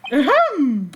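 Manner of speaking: a big hammed-up ahem; exaggerated ahem; over-the-top throat clearing. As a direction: clear your throat theatrically for attention. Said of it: "most over-the-top clearing of the throat".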